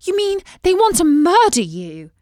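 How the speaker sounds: high, loud shocked cry; a princess horrified at the news; shocked exclamation. A narrator's reading. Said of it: "exclaimed Beatrice".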